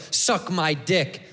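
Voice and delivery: low, slow and hostile; negative. Shown as a demonstration. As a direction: spit "Suck my dick." out like an insult. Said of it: "We say it negative".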